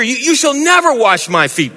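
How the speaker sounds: an indignant disciple pushing back; Peter's high alarmed refusal; Peter refusing. Acted.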